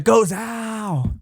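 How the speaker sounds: sharp shouted command; shouted order. Retold or imitated. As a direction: bark the order. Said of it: "He said".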